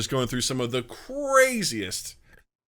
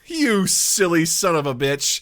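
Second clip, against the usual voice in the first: slow, playful fond insult; endearing swear; 3 semitones higher, slower than usual. Retold or imitated. Host showing how Australians say it, mock-fond swearing. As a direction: imitate affectionate teasing with a curse. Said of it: "it's so endearing".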